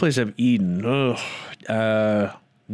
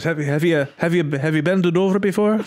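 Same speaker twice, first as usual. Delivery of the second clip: imitating talk show host; 6 semitones higher, 3 dB louder than usual. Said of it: "He goes".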